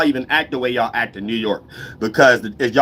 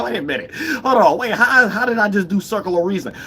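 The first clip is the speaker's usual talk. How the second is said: baffled realization; 7 semitones higher than usual. Acted. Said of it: "it's like".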